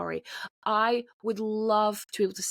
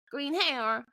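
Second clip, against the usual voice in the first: higher, imitated jeer; mocking taunt; 5 semitones higher than usual. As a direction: imitate a man's mocking call. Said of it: "starts laughing and just going".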